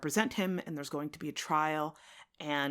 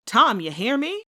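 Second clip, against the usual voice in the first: much louder and higher repeated demand; angry shout; 8 semitones higher, 11 dB louder than usual. Acted. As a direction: bark the question at him. John repeats his demand, shouting.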